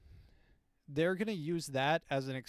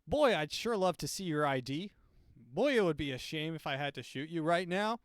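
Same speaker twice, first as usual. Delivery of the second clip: friendly robot menace; 2 semitones higher, 4 dB louder than usual. Retold or imitated. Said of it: "maybe it'll be really nice".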